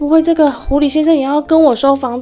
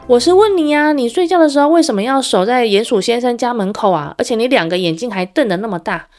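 loud demanding shout; 4 semitones higher, 4 dB louder than usual. Acted. Hedgehog keeps shouting at fox.

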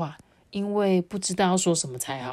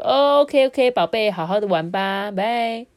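breezy distracted mom; 4 semitones higher, 6 dB louder than usual. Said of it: "妈妈就咬了口中的一口胡萝卜".

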